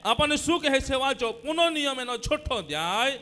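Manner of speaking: high, projected scripture call; preaching announcement. Real, not acted. Preacher directing congregation to a Bible chapter, projected announcement.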